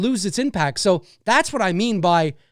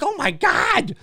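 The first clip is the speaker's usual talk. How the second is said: higher-pitched, lightly exasperated amazement; mock overwhelmed; 7 semitones higher, slower than usual. Host reacting to endless British accents, mock overwhelmed. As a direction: throw it up high, playfully overwhelmed. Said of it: "I'm like".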